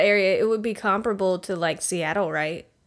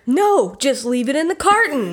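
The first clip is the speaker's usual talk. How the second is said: dad customer; 4 semitones higher than usual. Pretend. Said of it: "you be the dad".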